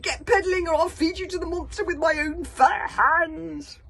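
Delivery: high loud slow threat; threatening roar. Acted. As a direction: threaten them, roaring.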